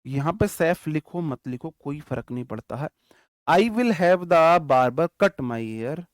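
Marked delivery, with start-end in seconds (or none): 3.5-6.0 very slow, loud, word by word; slow dictation. Shown as a demonstration. Teacher dictating an example sentence to his class, very slow and loud. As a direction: dictate each word so students can write it. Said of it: "teacher dictates example sentence".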